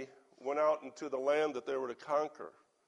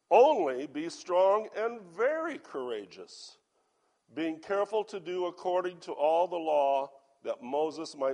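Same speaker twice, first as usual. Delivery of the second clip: scripture reading; 5 dB louder than usual. Acted. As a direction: proclaim the commandment from the page. Reads scripture to congregation.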